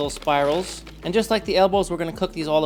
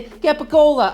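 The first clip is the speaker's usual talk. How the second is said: higher, louder put-on Italian accent; thick Italian accent; 10 semitones higher, 8 dB louder than usual. Shown as a demonstration. Cook showing the way they dislike saying it, thick Italian accent. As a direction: overdo it like a mock Italian. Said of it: "with a thick Italian accent".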